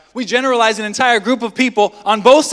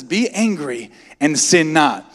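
mock quoting scripture; 4 semitones lower, slower than usual. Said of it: "Oh, the Bible says".

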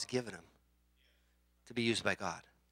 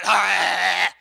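aggressive growl; 3 semitones higher, 11 dB louder than usual. Pretend. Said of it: "Not in a bad way".

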